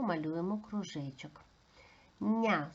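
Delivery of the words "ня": НЯ with a soft palatalized н; НЯ demonstrated as a softened syllable; soft consonant. Shown as a demonstration. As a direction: say НЯ with the tongue raised for a soft n. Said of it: "звучить м'якенько".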